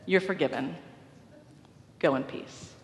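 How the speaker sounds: gentle absolution. Retold or imitated. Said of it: "he said".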